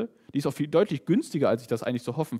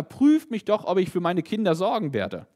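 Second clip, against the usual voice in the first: higher and louder, a loving father calling out; 5 semitones higher, 3 dB louder than usual. Retold or imitated. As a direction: lift it up like a proud loving father offering. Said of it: "sondern hier sagt ein liebender Vater".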